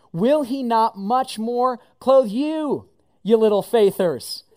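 slow, teasing lean on "little faithers"; drawn-out playful jab at "you little faithers". Shown as a demonstration. Jesus teasing the crowd, drawn-out and playful. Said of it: "sounded a little bit more like this".

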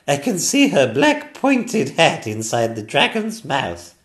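excited queen. Acted. Queen seeing the witch's hat, excited and loud. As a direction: point it out eagerly.

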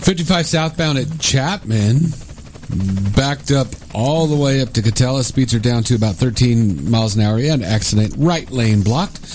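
brisk traffic report read; radio traffic report. Acted.

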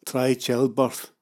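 slow, dry mutter of a wife. Retold or imitated. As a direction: drag it out, unimpressed. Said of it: "she muttered".

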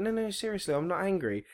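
acted-out calm protest; mock calm. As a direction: insist you are calm, pitch creeping up. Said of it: "as calm as anything".

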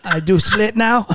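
Van Damme impression. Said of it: "he talks like this".

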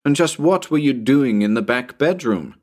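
a touch of scolding; rather harsh. Acted. Narrator interrogates Tommy from the roof, rather harsh. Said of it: "I asked rather harshly".

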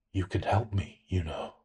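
soft, sly whisper-like voice; whispery voice. A narrator's reading. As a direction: murmur it with a hidden grin. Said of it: "I heard a whispery voice say".

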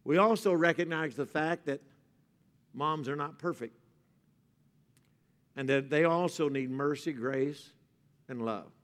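soft, low sermon voice; tender preaching. Real, not acted. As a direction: speak gently about mothers.

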